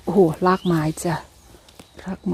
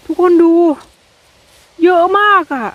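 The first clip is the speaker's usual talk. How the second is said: much higher and louder, thrilled; excited call; 8 semitones higher, 6 dB louder than usual. Real, not acted. Calling viewers to look at the mushrooms, loud excited. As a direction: call everyone over to see.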